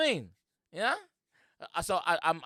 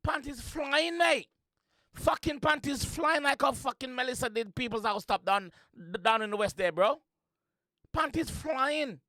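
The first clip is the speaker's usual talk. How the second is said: hyped; 11 semitones higher than usual. Real, not acted. Reactor hyping up the artist's lyrics, excited. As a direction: cheer the lyrics on like a fan.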